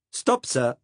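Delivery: lightly voiced Saxon accent, firm call; a young Saxon conscript politely halting him, hint of accent; Saxon German accent. Young Saxon cop calling on the narrator to halt, lightly Saxon-accented. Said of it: "in that unmistakable accent".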